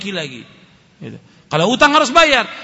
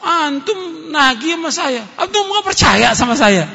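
mock indignant debtor; 5 semitones higher, slower than usual. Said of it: "wah, marah dia".

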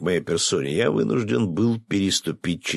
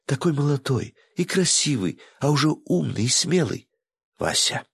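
breathy vintage purr; 9 semitones higher than usual. Acted. Flirting after breathy line.

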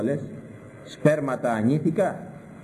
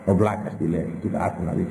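1 mocking churchgoer; 8 semitones lower than usual. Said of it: "τους βλέπω όταν θα πω".

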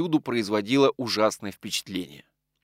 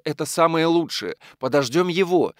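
higher, animated agreement; livened up; 6 semitones higher than usual. A narrator's reading. Widow agreeing to wait for the lodger, livened up. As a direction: brighten at the plan. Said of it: "оживилась полковница".

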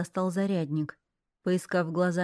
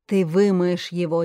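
shouting; 7 dB louder than usual. Acted. Father yells back.

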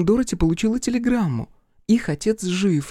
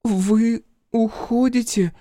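high, slow abandoned plea; forlorn; 6 semitones higher, much slower than usual. Acted. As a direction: ask as if left alone at night. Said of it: "спросила она таким тоном".

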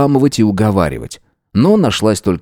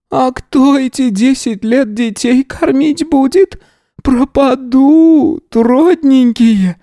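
high, slow, louder lament; plaintive wail; 3 dB louder, slower than usual. A narrator's reading. Yana pleading about her children, high slow wailing. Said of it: "жалобно всхлипнула".

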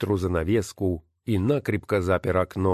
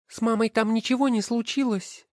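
put-on worried child. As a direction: ask father about mother. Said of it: "спросила Ноэми". (высокий голос девочки, с тревогой)

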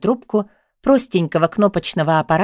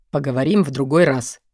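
much lower, gentler; softer male voice; 6 semitones lower than usual. A narrator's reading. Boyfriend on the phone, low and softer. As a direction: ease off, a bit kinder. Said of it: "его голос прозвучал уже мягче".

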